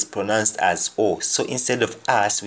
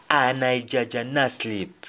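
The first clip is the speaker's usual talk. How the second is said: Jamaican patois; 2 semitones higher than usual. Shown as a demonstration. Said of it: "And then".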